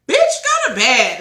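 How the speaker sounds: loud, high, drawn-out command; retold exasperated yell; imitated sister's order.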